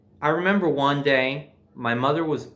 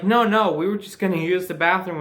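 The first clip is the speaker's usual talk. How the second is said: mock reply; 4 semitones higher than usual. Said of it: "we were like".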